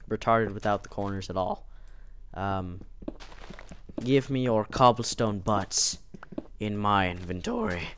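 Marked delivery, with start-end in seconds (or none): 4.0-6.0 voice crack. Real, not acted. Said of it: "Voice crack again".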